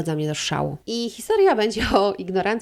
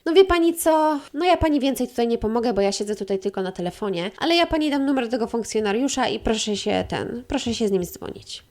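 receptionist voice; 3 semitones higher than usual. Retold or imitated. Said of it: "receptionist replies".

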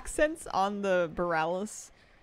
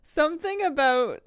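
laughing; 12 semitones higher, 9 dB louder, much slower than usual. Real, not acted. Cracking up at own impression.

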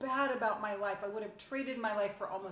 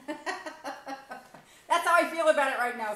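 laughing through the words, slowed down; 4 semitones higher, 6 dB louder, slower than usual. Real, not acted. To viewers about her shitty phone, laughing. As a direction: laugh it out, amused by the mess.

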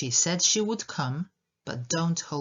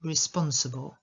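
"Responsible" with a strong SPON, weak schwa after; second-syllable stress. Shown as a demonstration. Teacher showing learners "Responsible", stressed on the second syllable. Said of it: "na drugą sylabę".

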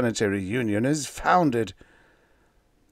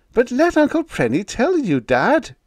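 higher, louder pleading; 11 semitones higher, 5 dB louder than usual. Acted. Son-in-law pleads with the angry captain, higher and louder. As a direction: beg him to listen. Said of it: "pleaded Biggs".

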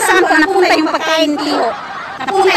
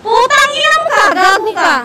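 mock curse, high; 5 semitones higher than usual. Cursing the commenter.

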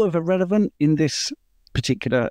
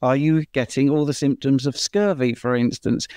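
smile in voice. Real, not acted. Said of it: "saying it with a bit of a smile in my voice".

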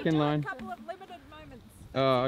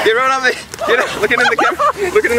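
calling out; 5 semitones higher, much faster than usual. Real, not acted. Director calling out to kids.

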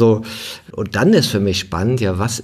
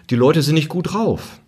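higher-pitched mock dismissal of self-development; imitating sceptics; 6 semitones higher than usual. Sceptics complain about self-development people, lightly mocked in higher pitch. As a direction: voice the doubters, pitched up, ending in amusement. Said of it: "manche sagen ja auch".

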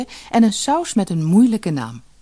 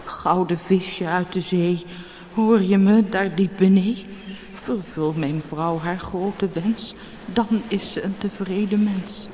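trembling voice; 3 semitones higher than usual. Acted. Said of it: "riep met een bibberende stem".

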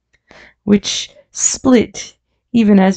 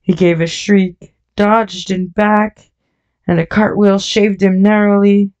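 plain reading voice

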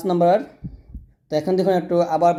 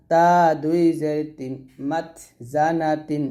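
slow sing-song letter-by-letter recital; spelling drill. Shown as a demonstration. Teacher spelling Arabic syllables aloud for students, sing-song drill. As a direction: chant each letter and vowel mark for the class.

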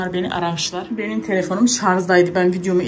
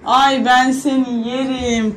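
slow, affectionate coo; doting; 4 semitones higher, much slower than usual. Real, not acted. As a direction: drag it out lovingly. Doting on the daughter. (kızını severken yavaş sevgi dolu ses)

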